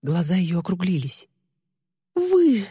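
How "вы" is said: sudden high loud outburst; shocked cry of realization. Acted. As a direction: gasp out the accusation. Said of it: "Ли вскрикнула".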